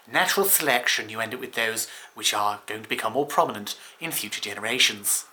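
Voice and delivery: a loosely put-on voice of a famous scientist; bad Dawkins accent. Explaining memes to viewers by lightly mimicking a scientist. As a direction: slip lightly into a scholarly lecturer's voice. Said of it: "That was a terrible, terrible accent".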